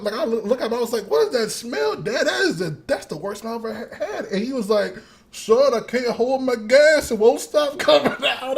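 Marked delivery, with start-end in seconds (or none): 1.1-4.2 high, loud, laughing complaint to dad; laughing outcry. Retold or imitated. Retold outburst to dad, laughing. 5.3-8.6 dad's voice. Retold or imitated. Voicing dad's confession.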